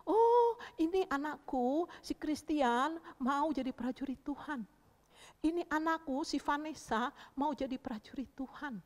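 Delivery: put-on dote proudly on each child; Holy Spirit's delighted recognition. Holy Spirit hearing children's prayers, proud delight. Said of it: "Roh Kudus dengar".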